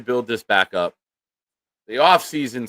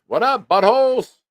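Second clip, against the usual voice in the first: mock rowdy greeting; 12 semitones higher, 6 dB louder than usual. Host voices a viewer's greeting.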